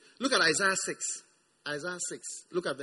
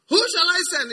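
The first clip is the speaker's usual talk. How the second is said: voice of God; 11 semitones higher, 8 dB louder than usual. Acted. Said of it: "some type of things God says".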